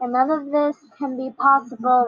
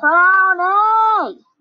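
loud, high scream with a word stretched long; 7 semitones higher, 5 dB louder than usual. Calling out again to someone who keeps saying not now; screaming. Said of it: "Why are you screaming?".

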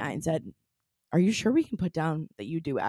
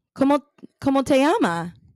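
practiced, raised, higher-pitched Spanish accent; 8 semitones higher, 6 dB louder than usual. Asked to put on a Spanish accent just to practice it: Spanish accent. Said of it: "can we get a Spanish accent just to practice it?".

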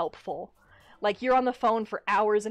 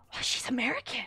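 soft, hushed whisper under the breath; 3 semitones higher, 5 dB quieter than usual. Telling how people reacted on hearing the speaker talk, retelling a whisper. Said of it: "just whisper".

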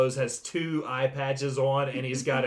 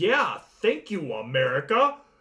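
fake, swooping southern drawl over Eastern European accent. Retelling how a man on a show talked, fake southern drawl. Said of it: "tried-to-be southern drawl".

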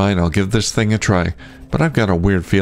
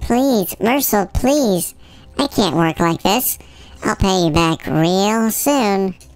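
squeaky mimicking voice; 13 semitones higher than usual. Retelling how a woman who owed him silver came groveling, in a squeaky voice. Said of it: "mimicking a squeaky voice".

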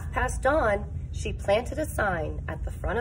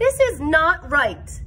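raised, slow, angry, each word weighed; 7 semitones higher, 7 dB louder than usual. Young Sophia glares at Mount Trashmore in a story, declared angrily. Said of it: "declared young Sophia, who glared at Mount Trashmore".

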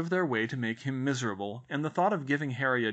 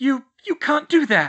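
stammering, much higher and louder; 11 semitones higher, 10 dB louder than usual. Narrator voicing Aunt Petunia speaking to Harry, stammering. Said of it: "she stammered".

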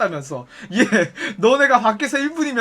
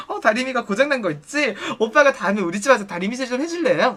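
plain

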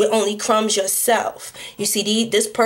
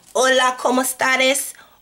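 put-on Mexican accent; 3 semitones higher than usual. Speaker acting out being mexican in a bit, put-on mexican accent. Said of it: "first I was Mexican".

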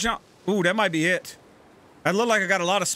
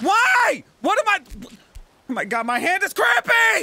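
very high, frantic, completely losing-it freak-out; 13 semitones higher, 4 dB louder than usual. Having just announced they're about to flip out, the speaker keeps going: flipping out. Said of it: "I'm about to flip out!".

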